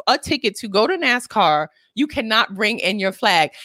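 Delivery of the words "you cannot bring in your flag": usual speaking voice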